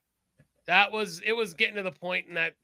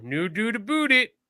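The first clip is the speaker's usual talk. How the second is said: higher mock Canadian, "boot" with a long oo; mock Canadian accent; 4 semitones higher than usual. Mimicking Canadian commercials, mock Canadian "boot". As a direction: exaggerate the Canadian vowels into oo sounds. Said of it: "now we all go".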